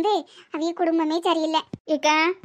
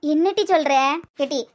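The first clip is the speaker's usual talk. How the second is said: anxious, near tears; 3 semitones lower, faster than usual. Acted. Anxious wife demanding news.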